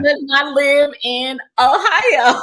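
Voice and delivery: amused, laughing admission. Real, not acted. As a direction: add it while cracking up. Coy answer about where he lives.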